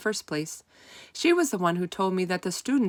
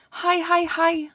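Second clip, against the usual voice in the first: high, loud, eager little squeaks of hi; a tiny hamster bursting with joy at seeing her; excited high-pitched rodent hello; squeaky hamster greeting; 11 semitones higher, 6 dB louder, slower than usual. A narrator's reading. Hamster greets beloved teacher.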